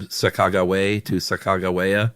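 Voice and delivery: "Sacagawea" first ending in way, then in way-uh; hard G in "Sacagawea", second take adds a final uh; variant pronunciations. Shown as a demonstration. Co-host comparing variants, "Sacagawea" ending way, then way-uh. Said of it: "I've seen different things from".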